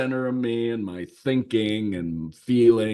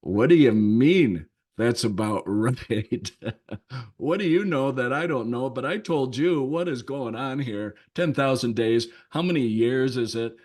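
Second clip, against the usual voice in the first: higher, faster, bewildered inner monologue; incredulous inner voice; 4 semitones higher than usual. Retold or imitated. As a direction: rattle off your confused thoughts. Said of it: "in my internal self".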